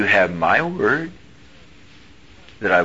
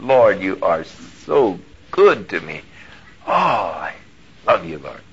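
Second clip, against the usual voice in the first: tender prayer. Retold or imitated. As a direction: murmur love to God. Retold quiet loving prayer.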